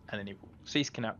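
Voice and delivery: ordinary talk, nothing marked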